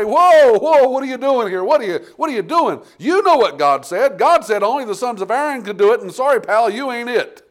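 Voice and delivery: loud, high, indignant rebuke; shouting high at an intruding king; priests rebuking the king. Retold or imitated. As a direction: call him out like an outraged priest. Eighty priests walk in there and say.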